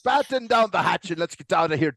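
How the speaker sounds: lightly voiced pirate captain; mock pirate cabbie; pirate Lyft driver. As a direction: give orders like a ship's pirate. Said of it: "a pirate Lyft driver".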